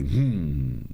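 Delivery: drawn-out falling "hum"; imitated groan. Recounting the noise the girl gave, imitated groan. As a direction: mimic a possessed girl's groan. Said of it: "deu aquele".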